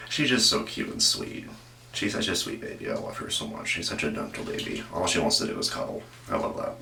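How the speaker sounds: soft, hushed and fond. Real, not acted. Host gushing about his sleepy old dog, soft and tender.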